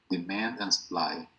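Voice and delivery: slow model of Demand and supply with man stressed. Shown as a demonstration. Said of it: "el acento va en man".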